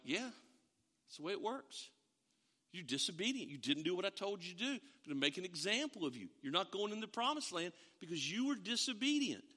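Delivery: God calmly telling Moses he won't go in; God's hushed verdict. Retold or imitated. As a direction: deliver the sentence quietly.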